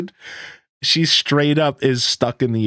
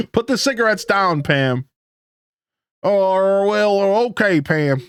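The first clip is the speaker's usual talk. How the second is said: a higher, lightly stern barkeep; half-hearted telling off; mild scolding bartender; 9 semitones higher, slower than usual. Acted. Gus tells Pam to put the cigarettes down, mildly stern.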